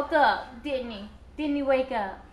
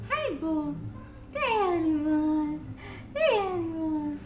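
slow, drawn-out cooing; tender pet name; much slower than usual. Real, not acted. Mother calling her baby a pet name, slow coo. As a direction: stretch the pet name slowly.

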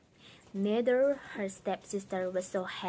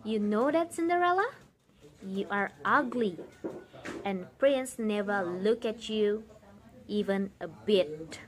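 wicked stepmother. Acted. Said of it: "And the answer would be".

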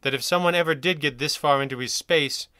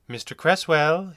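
gentle, slow bedside-doctor greeting; mild, slow kindly doctor voice; 4 semitones higher, 3 dB louder, slower than usual. Acted. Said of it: "he said kindly".

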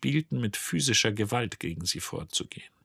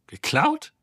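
Geklaut? flung out much higher and louder in disbelief; shocked high cry; 5 dB louder than usual. Acted. Ford cries out at news the ship was stolen, shocked. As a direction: gasp it out, stunned.

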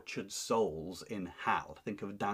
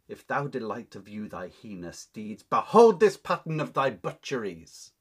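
Anne's loud curse; 6 dB louder than usual. Acted. Teacher reads Anne's curse.

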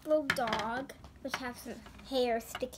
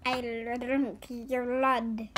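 slow, louder mock vampire line; playful vampire voice; 5 dB louder, much slower than usual. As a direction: drag it out like a toy vampire bat. Voicing a toy vampire bat.

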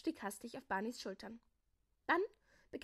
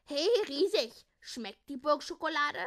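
loud, high shout over to someone; calling out; 5 semitones higher, 9 dB louder than usual. A narrator's reading. Calling to the giant to ask about the taste, calling out.

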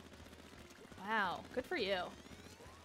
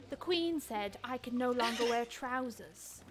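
mock British orphan; slower than usual. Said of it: "because I'm Oliver Twist".

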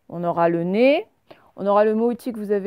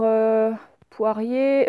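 slow modeling; much slower than usual. Shown as a demonstration. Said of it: "teacher models word very slowly".

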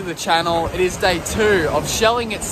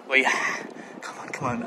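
tense hope; 6 semitones lower, 6 dB quieter, faster than usual. Real, not acted. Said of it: "I'm so excited".

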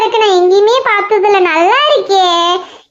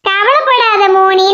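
reassuring; slower than usual. Real, not acted. Girl comforts her friend after scolding her.

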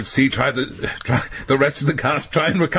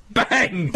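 mock shouted bang; 4 semitones higher than usual. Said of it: "then shout".

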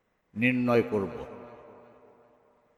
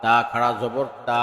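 final "তা" held long; drawn-out vowel; faster than usual. Shown as a demonstration. Teacher demonstrating khara jabar, long "তা". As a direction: stretch the last "তা" for one alif. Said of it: "একালিপ টেনে পড়তে".

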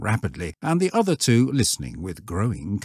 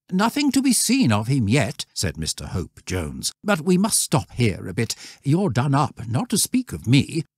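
higher, winded master's voice; tired master; 6 semitones higher than usual. A narrator's reading. Mr Hope Jones to the exhausted boys, higher and tired. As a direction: speak it as a spent leader.

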